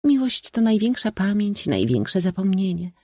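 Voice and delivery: high-pitched, deliberate feminine voice; declaiming princess. A narrator's reading. Princess defining love for the company, high declaiming. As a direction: state it as an aphorism, pitched high. Princess delivers her aphorism.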